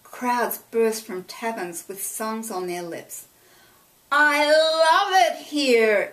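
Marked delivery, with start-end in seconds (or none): 4.1-6.1 high, loud and slow, joyful; delighted loud voice. A narrator's reading. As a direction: shout your joy over the docks. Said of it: "Emily said in her Emily voice".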